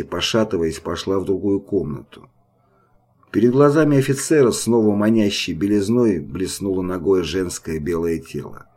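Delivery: usual speaking voice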